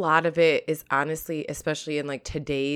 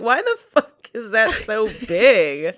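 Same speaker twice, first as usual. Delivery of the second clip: imitating husband; 4 semitones higher, 5 dB louder, slower than usual. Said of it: "and he's like".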